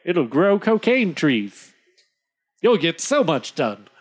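lightly voiced salesman; playful sales pitch; mock trader pitch. Joking impression of the trader's sales pitch.

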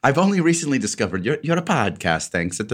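lightly voiced Italian accent. Reading the Milan fan's letter aloud, a light Italian accent. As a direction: read it like Luigi, Italian accent. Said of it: "Luigi impression".

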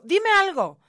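pleading for news, loud and high; anxious aunt begging for news; urgent plea. Retold or imitated. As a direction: beg to hear anything.

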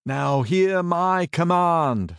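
slow, loud, high royal decree; commanding king. Acted. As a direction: proclaim it slowly from the throne. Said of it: "said he".

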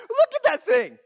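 high, loud cooing at a little dog; amused teasing. Retold or imitated. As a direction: tease it like a yapping puppy. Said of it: "you're like".

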